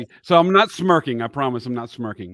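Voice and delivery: one side of mouth numb; numb from the dentist. Real, not acted. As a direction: speak through a numb lip. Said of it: "this side of my face is numb".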